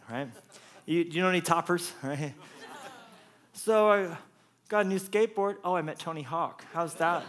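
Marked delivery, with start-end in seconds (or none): 3.5-7.2 put-on a boy bragging to his friends, pitched up; bragging kid. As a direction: show off like a kid. Kid one-upping with skateboard brag.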